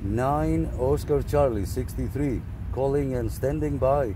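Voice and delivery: projecting into the mic to reach a distant operator; radio calling. Real, not acted.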